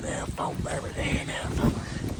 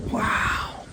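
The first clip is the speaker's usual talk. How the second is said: excited shout; 6 semitones higher than usual. Real, not acted. Deer just killed.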